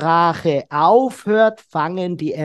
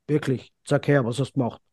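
flat and unmoved; 5 semitones lower, 5 dB quieter, faster than usual. Retold or imitated. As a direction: lower and softer, lifeless interest. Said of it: "mit hängenden Mundwinkeln, unbewegt, laschen Ding". (lustlos und unbewegt, leiser)

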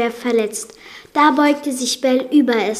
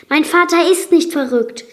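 higher, louder indignant cry; storyteller's raised voice for a protesting daughter; calling out; 6 semitones higher, 6 dB louder than usual. A narrator's reading. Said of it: "rief sie".

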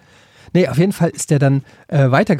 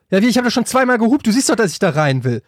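aufgebracht; 4 semitones higher, faster than usual. Retold or imitated. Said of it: "ich dann so".

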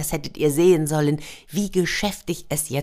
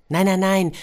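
firm refusal; 4 semitones higher, 4 dB louder than usual. Acted. Old man refusing neighbours.

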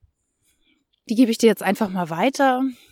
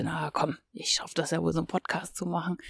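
much softer, talking herself into it; softly egging herself on; quiet self-talk; 5 semitones lower, 11 dB quieter, faster than usual. Retold or imitated. Retold thought, talking herself into it.

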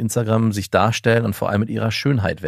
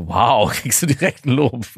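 teasing laugh; 3 semitones higher, slower than usual. Real, not acted. Teasing joke.

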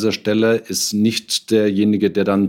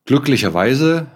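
higher, louder burst of relief; relieved outburst; 6 semitones higher, 4 dB louder than usual. Real, not acted. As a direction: blurt it out with sudden relief. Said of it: "etwas sanfter stimmt".

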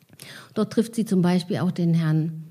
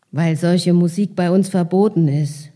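put-on older boy voice; 5 semitones lower than usual. Carsten answers the child.

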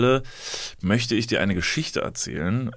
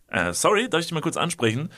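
quoting the stranger; 5 semitones higher than usual. Retold or imitated.

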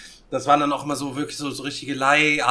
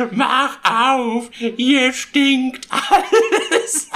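high, laughing mock shout, drawn out; landlady shouting; 9 semitones higher, 4 dB louder, much slower than usual. Landlady outside the smoky room, high laughing mock yell. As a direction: laugh through a high scolding call. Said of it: "die Alte hämmert nur an die Tür".

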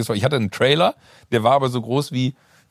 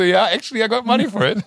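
proud reply; 10 semitones higher, 3 dB louder than usual. Retold or imitated. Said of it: "Ich so".

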